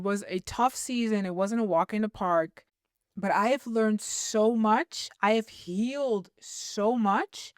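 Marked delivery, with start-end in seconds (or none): 3.2-7.5 slow, near tears, voice on the edge; fighting back tears while telling it; holding back tears. Real, not acted. Telling her story of losing the job, slow and near tears. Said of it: "I'm trying not to cry".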